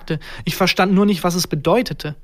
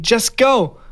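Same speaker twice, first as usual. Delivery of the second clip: higher, raised-voice command; shouting; 6 semitones higher, 4 dB louder than usual. A narrator's reading. Tom Hanks driving the narrator out, shouting. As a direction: cry out to send someone away. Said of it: "Er schrie".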